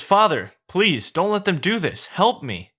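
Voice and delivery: high-pitched, acted plea to a father; pleading puppet. Pinocchio begs his father.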